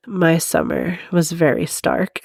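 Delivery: slow, lightly voiced depressed emo teenager; sad emo teen voice. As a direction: read it with a touch of teenage angst, dragged out. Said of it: "I gotta do a very sad, depressed, emo, teenage angst voice".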